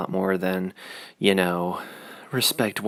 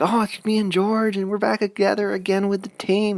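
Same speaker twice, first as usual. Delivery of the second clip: much higher, bubbly mock excitement; super excited; 12 semitones higher than usual. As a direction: gush like a kid who got his team back. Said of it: "super excited".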